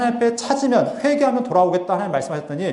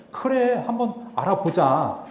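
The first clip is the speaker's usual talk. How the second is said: mildly mocking, dragged-out agreement; 비아냥 imitation; slower than usual. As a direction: imitate half-hearted, sneering assent, slowing down. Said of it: "그러니까 비아냥거리는 거죠". (살짝 비아냥거리듯 느릿하게 흉내 내며)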